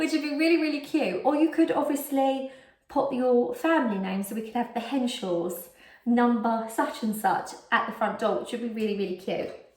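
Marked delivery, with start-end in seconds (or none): 0.0-1.2 hiccuping, quick pace, pitched up. Repeating a sentence after apologizing for hiccups, speaking with hiccups. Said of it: "I've got hiccups now".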